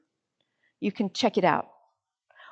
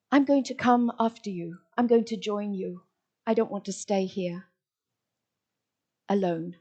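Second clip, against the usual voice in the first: grieving poet; 4 dB quieter than usual. Acted. Voices a grieving widowed poet.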